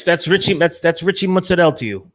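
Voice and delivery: mock-proud Jersey accent; thick Jersey accent. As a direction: correct them in a hammed-up Jersey voice. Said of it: "accentuating our Jersey accents".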